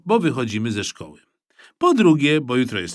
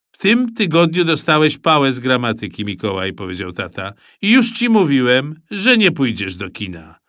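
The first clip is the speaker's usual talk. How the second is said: stern father; 4 dB louder than usual. Acted. Father refusing son.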